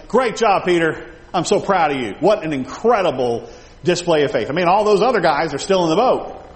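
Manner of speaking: hammed-up proud cheering; mock gushing praise. Jesus congratulating Peter in a made-up version, mock gushing. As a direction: lay on the praise, a bit loud.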